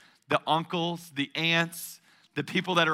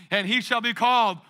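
louder recitation. Shown as a demonstration. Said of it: "let's say it a little bit louder".

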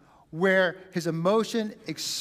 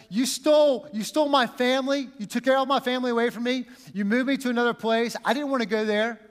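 high, loud aggrieved protest; an imagined wronged brother confronting his family; hurt accusation; 6 semitones higher, 3 dB louder than usual. Pretend. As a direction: accuse them with raw hurt. Imagined victim's bitter complaint.

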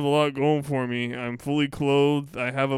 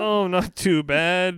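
mock-casual so-so; 5 semitones higher, 4 dB louder, slower than usual. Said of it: "If I say not bad".

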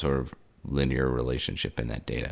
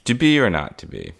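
grand Shakespearean soliloquy, pitched up; hammy stage actor; 3 dB louder than usual. Pretend. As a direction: declaim it like an old-school stage actor. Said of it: "I feel like soliloquying".

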